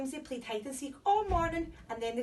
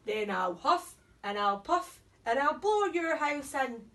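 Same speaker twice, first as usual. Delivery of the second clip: wolf shout; 3 dB louder than usual. Acted. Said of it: "shouted the wolf".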